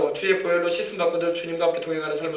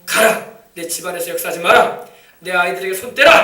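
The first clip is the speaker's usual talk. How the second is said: loud firm order to the spirit; commanding rebuke; 6 dB louder than usual. Shown as a demonstration. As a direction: command the demon out sternly. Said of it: "명령을 해가지고 막 쫓아내세요". (귀신을 꾸짖는 단호한 명령)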